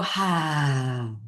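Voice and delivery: long sighing "ha" on the out-breath; empty the lungs on one drawn-out "ha"; demonstrated breath release; exhaled ha. Shown as a demonstration. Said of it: "And you're gonna go".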